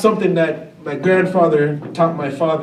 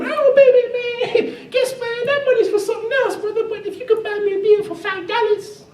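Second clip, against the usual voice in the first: smooth flashy pimp swagger. Retold or imitated. Pimp cousin voiced, laughing.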